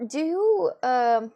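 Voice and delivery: surprised. Real, not acted. Sudden exclamation.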